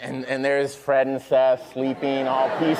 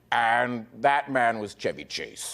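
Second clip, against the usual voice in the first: slow, soft, drawn-out reveal; mock grand anecdote ending; lightly imitated storyteller; 6 dB quieter, slower than usual. Tireless talker ending a show anecdote, lightly imitated. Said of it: "he'd be like".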